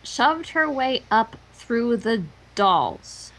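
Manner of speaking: very slow repeat; slow echo. Shown as a demonstration. Friend echoing the creepy line, very slow. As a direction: drag the echo out. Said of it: "Twilight Sparkle shoved".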